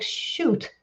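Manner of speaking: unvoiced, under the breath; muttered to self. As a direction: whisper it to yourself like a slip-up. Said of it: "you think of yourself while you're doing it".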